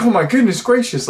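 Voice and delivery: high-pitched mock horror; shocked and appalled. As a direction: imitate a scandalized onlooker, voice jumping way up. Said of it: "shocked and appalled".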